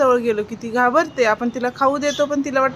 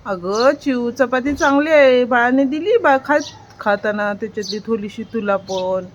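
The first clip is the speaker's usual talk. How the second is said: calling to the bird. Acted. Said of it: "तू तिला म्हण".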